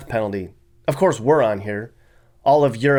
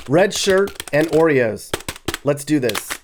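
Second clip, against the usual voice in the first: mock reply; 2 semitones higher, slower than usual. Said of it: "I should answer".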